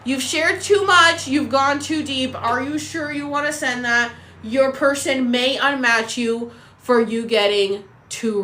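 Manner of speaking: hammed-up panic over oversharing; mock alarmed app. Mocking the app's panic at her honest message, hammed-up alarm. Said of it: "And they go".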